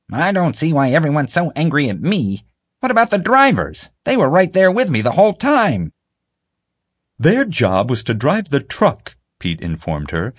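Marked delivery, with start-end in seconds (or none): 0.1-5.9 high, pleading female character voice; pleading woman. A narrator's reading. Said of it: "Marge was still pleading her case". 7.2-9.2 slow, stern male character voice; stern official. A narrator's reading.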